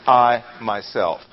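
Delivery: I stretched out before myself; measured emphasis on I; stress on I. Shown as a demonstration. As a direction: linger on I. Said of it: "those two I's are emphatic".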